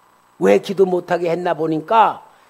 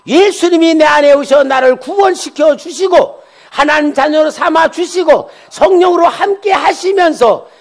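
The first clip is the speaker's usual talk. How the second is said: high, loud pulpit exclamations; impassioned preacher, voice raised high; full-force preaching; 8 semitones higher, 10 dB louder than usual. Real, not acted. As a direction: drive the lesson home at a shout.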